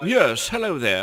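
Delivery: put-on British accent, like a British child. Pretending an eleven-year-old calls in to the show: put-on british accent. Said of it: "If they're British".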